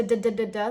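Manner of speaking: "d, d, d, d" as hard rapid duh syllables; "d, d, d, d" with a heavy tongue strike; strong D. Shown as a demonstration. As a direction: hammer out "d, d, d, d" firmly. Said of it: "not a very strong d".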